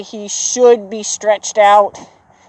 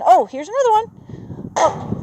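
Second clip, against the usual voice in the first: much higher and slower, gleeful; obsessive eager horse; 11 semitones higher, 4 dB quieter, slower than usual. Pretend. Trainer voicing the horse obsessed with rocks, high and gleeful. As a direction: stretch it out like he can't believe his luck.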